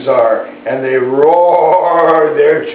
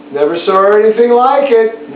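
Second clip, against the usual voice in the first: pet bird's voice; 5 semitones higher than usual. Pretend. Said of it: "Bert says".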